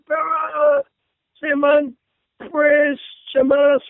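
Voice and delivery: slow, stumbling through Spanish words he can't read; clumsy Spanish reading. Pretend. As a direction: sound out the Spanish word by word. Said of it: "said it like that".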